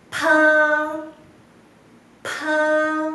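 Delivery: pa with a puff of air; aspirated pa. Shown as a demonstration. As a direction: let the air burst out on pa. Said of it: "también enfocamos en los labios".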